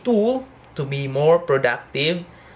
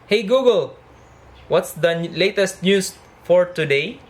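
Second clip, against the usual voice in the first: voice command; 5 semitones higher, 3 dB louder than usual. Real, not acted. Talking to voice assistant.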